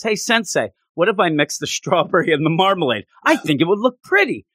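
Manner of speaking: mock-eager suggestion to a teacher; enthusiastic. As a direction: pitch it up like a keen student with an idea. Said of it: "I love how enthusiastic she is".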